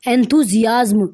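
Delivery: "enthusiasm" drawn out slowly, part by part; slow word demo. Shown as a demonstration. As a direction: say "enthusiasm" slowly and distinctly for learners. Distinguishing two similar-sounding words. ("enthusiasm" धीरे-धीरे, साफ़-साफ़ बोलकर)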